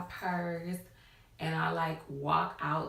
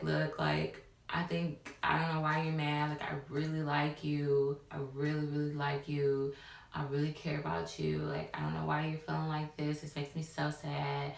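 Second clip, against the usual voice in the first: low, even, placating voice; smooth-talk someone to settle them; retold soothing reassurance, pitched a little low; calming him down; 3 semitones lower, 3 dB quieter than usual. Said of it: "I need to calm him down".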